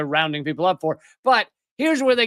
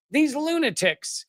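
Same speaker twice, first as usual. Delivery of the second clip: higher, drawn-out mock outrage; higher-pitched, slow sneering quote; 8 semitones higher than usual. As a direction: stretch it out in scornful quotation marks.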